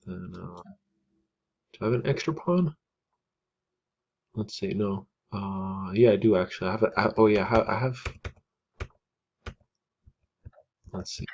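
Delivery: drowsy, half-asleep thinking aloud; groggy, drifting voice; nodding off. Real, not acted. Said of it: "like, half asleep".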